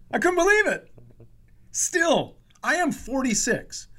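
high, loud incredulous laugh; laughing disbelief. Real, not acted. Comic telling the podcast host, laughing in disbelief. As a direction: laugh it out, can't believe it.

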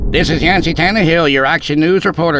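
Yancey playing a live TV news reporter; mock news reporter. A narrator's reading. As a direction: ham up a TV field reporter. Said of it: "in a high-pitched, nasally kind of voice".

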